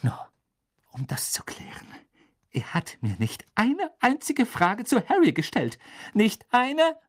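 hushed start rising into high indignation; trembling voice. A narrator's reading. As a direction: start barely controlled, then protest. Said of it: "Sie antwortete mit zitternder Stimme".

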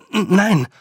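high, loud stammer, out of breath; panting. Acted. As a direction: gasp out the answer while running. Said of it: "keuchte Roland". (keuchend und stotternd)

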